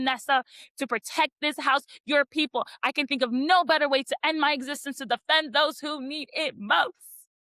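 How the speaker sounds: rising, impassioned dramatic delivery; dramatic reading. Retold or imitated. Cassian vowing to Nesta to defend the humans, in a swelling dramatic voice. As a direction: read it like a hero's vow. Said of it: "after my super dramaticness".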